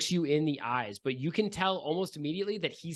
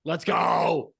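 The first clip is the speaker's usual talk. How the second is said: loud hyped-up call; punchy, raised-voice hype; excited cheer; 2 semitones higher, 6 dB louder than usual. Real, not acted. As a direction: cheer them into battle. Hyping the armed player.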